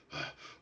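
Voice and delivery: short winded exhale; out-of-breath huff. Acted. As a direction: let out a puff, slightly out of breath. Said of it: "a little out of breath himself".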